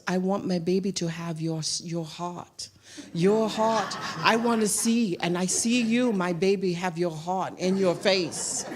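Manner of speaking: put-on a touch of an Asian accent, heartfelt; imitating Asian accent. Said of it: "She's Asian".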